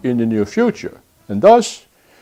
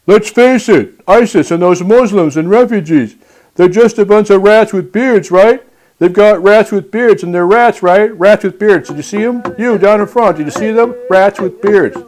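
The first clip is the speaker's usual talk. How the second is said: Donald Trump impression; 2 semitones higher than usual. Host mimics a candidate addressing the United Nations, blustering. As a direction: work the crowd like a boastful politician. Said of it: "I'm gonna go to my Donald Trump impression".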